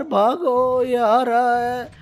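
fleeing the cockroach, shouting in panic; scared yelling. Acted. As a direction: call out in fear as it closes in.

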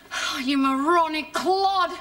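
slow, biting insult; a slow, scornful put-down; slow contempt. Acted. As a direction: spell out each word in scorn. Wife furious after the shooting.

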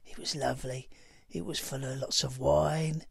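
put-on swaggering cockney geezer accent, telling his crime story. Ex-gang member boasting to viewers in a cockney accent. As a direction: lay the cockney accent on thick like a proper geezer. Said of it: "I've got an accent I can't shift".

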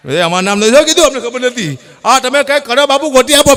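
high, loud whiny plea of callers; mock pleading callers. Callers begging the comedian, mock high whiny plea. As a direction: beg the bapu to find the lost wife.

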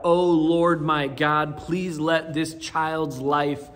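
pleading prayer. Acted. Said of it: "he cries out".

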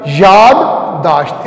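"यादाश्त" slowly, with a doubled d; both d sounds. Shown as a demonstration. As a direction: say "यादाश्त" split in two, "yaad... daasht". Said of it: "इसमें दो दाल आते हैं".

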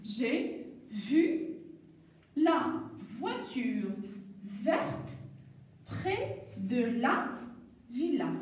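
slow, one word at a time with pauses; teacher reading the model sentence word by word. Shown as a demonstration. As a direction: read it slowly word by word for beginners. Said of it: "j'ai une petite phrase avec le son V".

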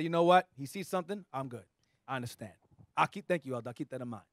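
lightly voiced humble self, low and soft; spiritual self. The spiritual self thanking the elder, low calm acceptance. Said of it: "the spiritual me will say".

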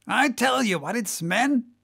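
crying to crew. Acted. Whaler to his crew during the chase, crying out. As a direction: call the men to attention. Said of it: "cried Stubb to his crew".

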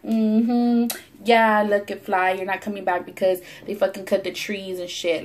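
swaggering mock taunt at the fly; acting all bad. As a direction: gloat like you own the street. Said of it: "I was acting all bad".

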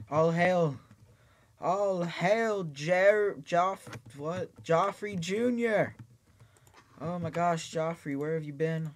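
high, loud squeaky mushroom creature. Acted. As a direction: shout it like a tiny excited mushroom. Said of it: "that's my, uh, mushroom voice".

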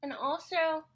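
mouth full. Real, not acted. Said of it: "sorry, I have a paintbrush in my mouth".

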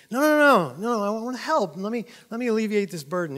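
high, insistent offer of help; acted earnest best friend; concerned friend. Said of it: "so the friend says".

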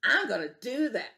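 screeched. Acted. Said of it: "screeched the grouchy ladybug".

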